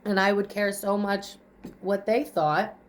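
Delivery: ordinary delivery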